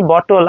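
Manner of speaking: বটল with a full o in the second syllable; full-vowel bottle. Shown as a demonstration. English teacher shows students what not to say, full-vowel bottle. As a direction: say বটল spelled out as bo-tol. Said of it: "বটল না বলে বলতে পারি".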